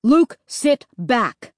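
slow, strained plea from a dad; pleading. A narrator's reading. Dad asks son to let go, pleading. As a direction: drag it out, wearily pleading. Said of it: "Dad pleaded".

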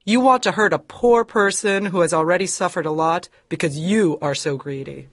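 put-on high, fierce scolding old woman; indignant high accusation; angry denunciation. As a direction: condemn his greed. Hepzibah denounces him.

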